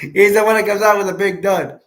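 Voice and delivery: laughing at his own slip, saying dud. Real, not acted. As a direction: crack up on the slip of the tongue. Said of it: "big gun".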